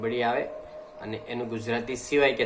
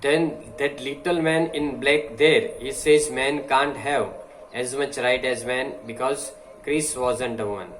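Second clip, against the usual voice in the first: slow, deliberate oratory reading; slow speech reading; much slower than usual. Acted. Teacher reading a speech to the class, slow and deliberate. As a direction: read each phrase slowly, like a speech.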